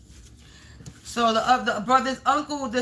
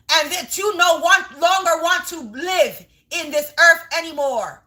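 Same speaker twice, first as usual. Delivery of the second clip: angry shout; 3 semitones higher than usual. Real, not acted. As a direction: yell curses at them. Cursing enemies in rage.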